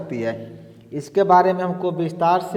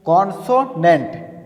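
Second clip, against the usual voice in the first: slow demo word. Shown as a demonstration. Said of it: "एक और शब्द है".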